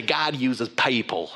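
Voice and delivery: put-on slow, lightly done Hutterite accent; a faint Hutterite lilt, drawn out slowly. Pastor imitating his real estate agent, slow mild Hutterite accent. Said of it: "the Hutterite accent".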